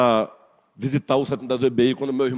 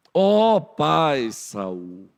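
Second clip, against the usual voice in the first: slow, drawn-out reverent call; respectful address; much slower than usual. Acted. David calling out to King Saul, slow and reverent. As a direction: stretch it out as a humble plea.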